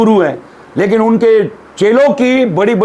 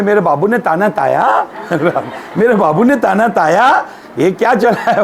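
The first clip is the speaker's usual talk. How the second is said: mock baby talk; 3 semitones lower than usual. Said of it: "बाबू बोलते".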